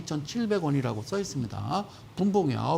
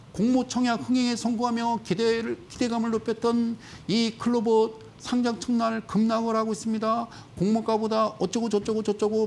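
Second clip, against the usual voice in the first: higher news-anchor style reading; 4 semitones higher than usual. Acted. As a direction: read the article like a reporter, then wave it off. Reads news article aloud. (기사 문장을 앵커처럼 읽기)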